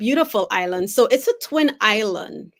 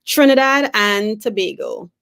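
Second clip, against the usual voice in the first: slower, clearer repeat; 6 dB louder than usual. Real, not acted. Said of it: "You wanna say that again a little bit slower".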